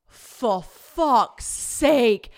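loud, very slow exasperated curse; exasperated outburst. Retold or imitated. James turns round and sees her, exasperated outburst. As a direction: drag out each word in loud disbelief.

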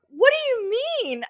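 genuinely lost at the remark; bewildered question. Retold or imitated. Patient puzzled by the doctor's comment, high bewildered question.

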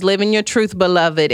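reading a comment in a light Yana voice. Retold or imitated. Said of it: "in my Yana voice".

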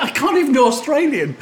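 mock panic through a laugh; rueful self-mocking laugh; panicked laugh. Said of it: "And I think".

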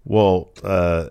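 ordinary talk, nothing marked

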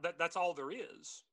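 ordinary talk

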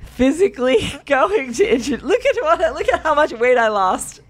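high, hammed-up salesman pitch; mock diet salesman. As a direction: show off like a proud diet guru.

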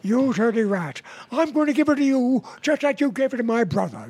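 a light Cagney snarl, quick on the brother line; quick playful Cagney "dirty rat" threat; Cagney impression. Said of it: "did a Cagney imitation".

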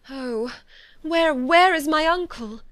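high, loud, drawn-out cry of distress; urgent, slow wail of words; anguished cry. A narrator's reading. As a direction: cry out desperately for help. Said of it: "cried Elizabeth".

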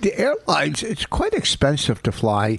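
put-on old Hollywood transatlantic accent; a light transatlantic accent. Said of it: "suddenly have some kind of transatlantic accent".

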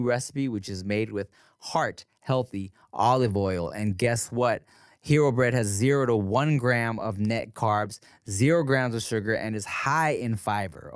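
soft, casual sponsor read. Acted. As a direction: read the ad softly and chummy. Host reads a sponsor ad.

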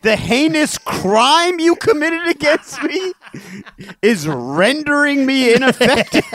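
hammed-up courtroom-style outrage; outraged neutered dog. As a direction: declaim the accusation as a wronged dog. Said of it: "if a neutered dog could talk".

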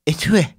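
etui squeezed into a spat-out eh-TWEE; spitting pronunciation. Real, not acted. Host offering a replacement word, etui said like spitting. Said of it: "Did you just spit?".

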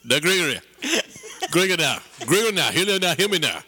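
put-on sermonise at the boy; preachy elder. Same preacher character.

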